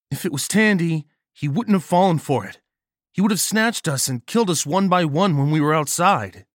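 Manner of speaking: Nagel's voice. A narrator's reading. Nagel urgently explains the danger.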